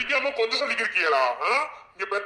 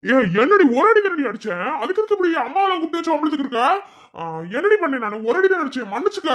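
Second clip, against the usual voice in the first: exasperated pleading; 5 semitones higher than usual. Acted. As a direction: plead with her, fed up. Husband pleading, frustrated with wife.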